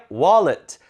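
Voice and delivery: 월렛 as English "WAH-lit", loud start; front stress, weak ending. Shown as a demonstration. Teacher modelling for students, 월렛 with loud first syllable. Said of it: "해보세요".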